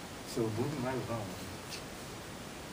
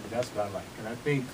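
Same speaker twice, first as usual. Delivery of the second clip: breathless, short of air; talking while winded after dancing; out of breath; 4 semitones lower, 6 dB quieter than usual. Real, not acted. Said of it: "I don't know why I'm out of breath".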